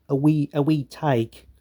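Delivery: a light attempt at a Scottish accent; half-hearted Scottish accent. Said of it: "that's my attempt at a Scottish accent".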